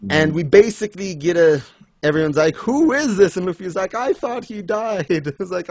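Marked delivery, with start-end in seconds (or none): 2.6-3.4 high, louder mock-baffled question; imitating everyone's bewilderment; acted astonishment. Everyone puzzled by the newcomer. 3.9-5.1 high, slow mock disbelief; put-on stunned wail; imitated shock. Retells Luffy's shocked reaction.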